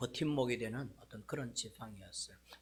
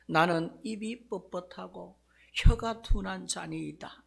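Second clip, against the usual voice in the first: Moses pleading, higher and louder, hammed-up fright; mock trembling fear; 6 semitones higher, 6 dB louder than usual. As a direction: play a scared, shaking Moses begging off. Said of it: "겁에 질려가지고 덜덜덜덜덜 떨면서".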